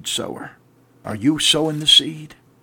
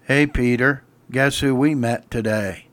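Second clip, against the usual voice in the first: offhand and casual, a touch lower; lazy monotone; 3 semitones lower than usual. Shown as a demonstration. Andrew telling Peter, mock lazy and flat. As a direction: toss it off like it's nothing. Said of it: "in a lazy, monotone voice".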